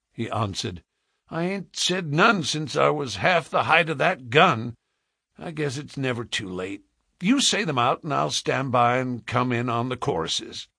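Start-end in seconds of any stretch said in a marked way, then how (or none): 1.3-10.7 lightly voiced folksy Western man; sheepish frontiersman. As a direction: admit it, then offer to join in. Man's Western voice.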